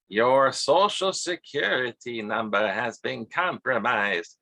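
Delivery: slow, drawn-out recorded phone voice; robocall voice. Retold or imitated. To his audience, imitating the scam call's slow voice. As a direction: mimic the scam robocall's stiff delivery. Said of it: "they talked like that too".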